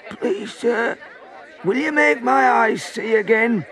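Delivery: high, pleading call from a crowd. A narrator's reading. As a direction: beg for help at a high pitch. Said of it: "People in the crowd began calling out".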